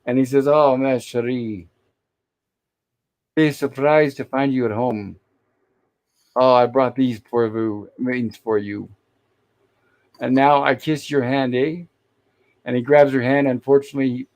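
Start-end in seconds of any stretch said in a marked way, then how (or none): 0.5-8.9 slow, hammed-up French accent; horrible French accent. Gilligan wooing Marianne with flowers, mock French accent. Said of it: "a very horrible French accent". 10.2-11.8 lightly imitated bad French accent; horrible French accent. Gilligan kissing Marianne's hand, mock French accent. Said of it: "a very horrible French accent".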